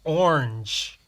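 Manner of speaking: Orange drawn out with American vowels; American pronunciation. Shown as a demonstration. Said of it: "They say orange".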